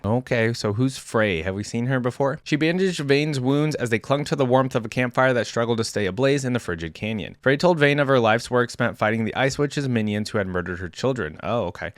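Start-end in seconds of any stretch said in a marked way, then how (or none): 2.4-11.4 even, measured read-aloud narration; story narration. A narrator's reading. YouTuber reading a champion's biography to viewers, story narration.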